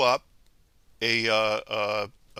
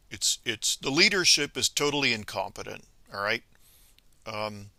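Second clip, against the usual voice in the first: ordinary talk, nothing marked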